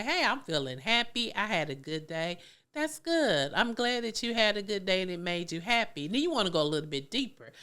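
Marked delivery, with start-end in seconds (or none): 0.0-2.4 voicing the child. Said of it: "some of 'em may say". 2.7-6.1 much higher, louder praise; encouraging parent. Shown as a demonstration. Parent praising a child who had a good day, bright and high. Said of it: "parent answers the child, demo".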